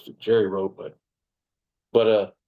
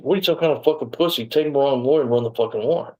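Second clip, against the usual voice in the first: higher-pitched, sneering retold taunt; mock angry sergeant; 4 semitones higher than usual. Sergeant mocking the young officer, higher and scornful. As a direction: throw the sergeant's insult back with scorn. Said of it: "That's how he talked to us".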